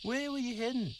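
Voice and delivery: usual speaking voice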